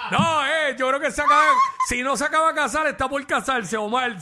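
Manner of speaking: laughing through the words; high, giggly and amused. Real, not acted. Laughing while talking about Omar.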